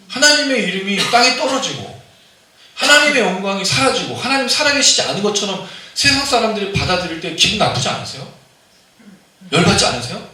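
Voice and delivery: preacher at full force; fervent preaching. Acted. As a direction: rouse the congregation, voice climbing high. Preacher builds to a fervent peak.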